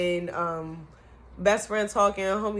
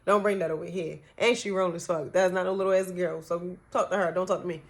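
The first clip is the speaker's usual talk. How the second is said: firm angry telling-off. Retold or imitated. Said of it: "I'm like".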